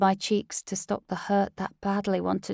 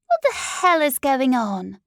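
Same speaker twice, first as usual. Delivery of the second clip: higher, louder, outraged; furious high shout; 5 semitones higher, 6 dB louder than usual. Acted. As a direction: burst in on them, furious. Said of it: "The high-pitched voice of Cheryl".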